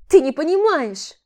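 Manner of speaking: high, loud despairing cry; desperate shout. Acted. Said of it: "в каком-то отчаянии".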